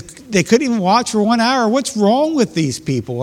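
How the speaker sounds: exasperated. Retold or imitated. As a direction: throw up your hands at them. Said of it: "And he says".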